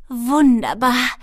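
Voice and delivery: slow, high, loud kobold voice; smacking kobold relish. A narrator's reading. Kobold eating her mushroom mid-flight, relishing it loudly. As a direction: draw the word out loudly with relish. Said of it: "schmatzte Schwefelfell".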